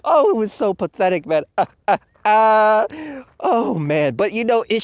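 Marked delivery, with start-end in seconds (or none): 1.6-2.9 mock screaming. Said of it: "this man losing his mind".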